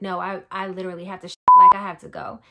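begging to be let go; desperate shout. Retold or imitated. Insisting to nurse in labor.

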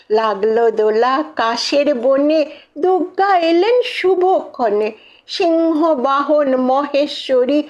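put-on lilting, rhythmic children's-verse recital; poem recitation. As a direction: recite it in bouncy rhymed couplets.

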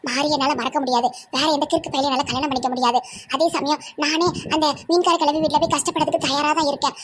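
fast, rushed reading of a bitter farewell letter; brisk mock-indignant letter voice; reading the letter aloud. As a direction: rattle off the runaway's accusations.

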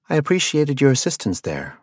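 pleased with the help; happy. Acted. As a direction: thank him cheerfully.

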